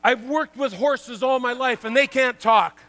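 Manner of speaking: put-on old trainer's line, loud and amused; retold trainer's line. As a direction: bark it out like an old-school trainer. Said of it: "He says".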